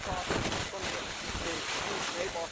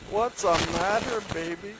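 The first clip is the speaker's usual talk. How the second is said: mild coaxing wife; 3 semitones higher, 5 dB louder than usual. Acted. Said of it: "his wife Jezebel asked him".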